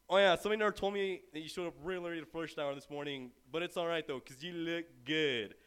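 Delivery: sarcastic backhanded compliment, slowing at the end; smartass. Retold or imitated. Hometown friend greeting a latecomer, sarcastic smartass. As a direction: needle them with a fake-friendly jab. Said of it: "backwards tone of thorough smartass".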